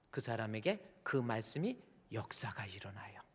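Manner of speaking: hushed whisper after the shout; preacher dropping to a whisper after a shout. Real, not acted. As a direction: breathe it out like a secret. Sudden hushed aside in sermon.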